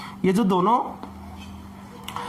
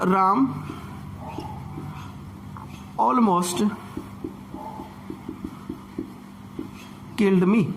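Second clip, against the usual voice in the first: spaced out word by word with long pauses; slow dictation while writing; 2 semitones lower, 5 dB quieter, much slower than usual. Shown as a demonstration. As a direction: dictate each word slowly as you write it on the board. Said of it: "यहाँ से लिख रहा हूँ मैं". (लिखते हुए धीरे-धीरे एक-एक शब्द बोलना)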